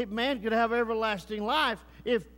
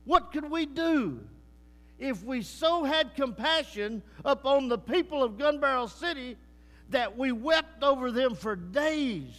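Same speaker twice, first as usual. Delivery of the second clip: raised, urgent preacher's appeal; impassioned preaching; 5 semitones higher, 3 dB louder than usual. Real, not acted. Preacher urging his church to weep for the city, impassioned. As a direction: press the challenge on the whole congregation.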